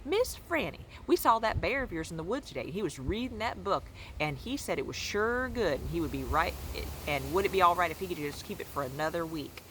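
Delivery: teasing town men. Retold or imitated. Town men teasing Miss Franny about her bear, lightly mocking and quick. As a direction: rib her playfully, fast. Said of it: "and they used to say".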